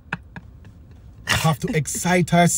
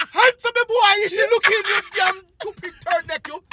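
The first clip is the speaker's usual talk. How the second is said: anxious friend chatter; 12 semitones higher than usual. Retold or imitated. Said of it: "you say to your friend".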